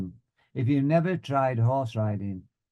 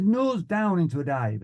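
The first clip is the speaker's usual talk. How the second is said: raised, firm flying order; instructor's command; 5 semitones higher than usual. Retold or imitated. Flying instructor ordering a dive, instructor's command. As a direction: call it out, falling at the end.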